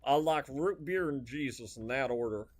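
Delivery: slow, drawn-out country bumpkin; a hammed-up hick bragging about his simple likes; folksy hick voice. Streamer jokes in a slow put-on hick voice. Follows hillbilly and cowboy voice talk.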